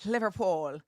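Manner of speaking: one word in an attempted Liverpool accent; Scouse accent attempt. Shown as a demonstration. Streamer showing the only word they can do, Scouse attempt. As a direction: try saying it like a Scouser. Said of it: "That's the only thing I can do".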